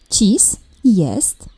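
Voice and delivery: whisper. Shown as a demonstration. Teacher whispering a hint to the pupil. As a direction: whisper the sentence start.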